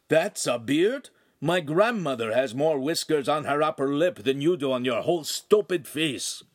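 rasping, scornful Italian retort; rough lout. Acted. Oaf sneering back at the neighbor in Italian, rough. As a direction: brush him off with contempt.

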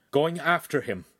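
teeth clenched, words pushed out; through gritted teeth. A narrator's reading. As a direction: grit your teeth and say it. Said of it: "through gritted teeth".

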